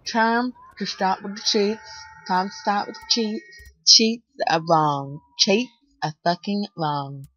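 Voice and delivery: put-on American accent. Gamer scolding cheats, American accent. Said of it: "Do you like my American accent?".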